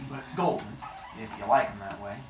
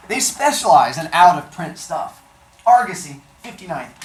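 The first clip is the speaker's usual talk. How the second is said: wife on phone; 4 semitones higher, 11 dB louder than usual. Acted. Wife repeats info on phone.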